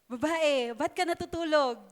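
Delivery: mock-serious teasing question; playful fake question; joking misquote. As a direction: tease the class with a wrong line.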